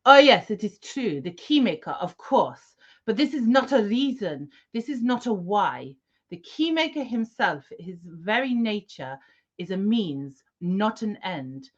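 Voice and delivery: lightly voiced villain, measured and grand; Merovingian role play. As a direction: play the smug Merovingian, deliberate. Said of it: "I'm in performance mode now".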